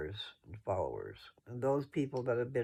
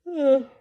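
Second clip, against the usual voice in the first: loud sigh; 14 semitones higher, 14 dB louder than usual. Real, not acted. Winding down the video.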